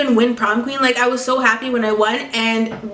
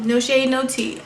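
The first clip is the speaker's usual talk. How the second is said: laughing. Real, not acted. Laughing at her own shade.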